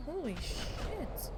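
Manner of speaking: real shock at a booming car stereo. Real, not acted. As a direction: drag it out in disbelief. Loud car stereo outside.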